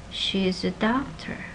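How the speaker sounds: She is a doctor, main stress on doctor; stated evenly, weight on DOCtor; statement intonation. Shown as a demonstration. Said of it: "it has a falling contour".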